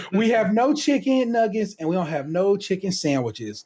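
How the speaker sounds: laughing clerk. Retold or imitated.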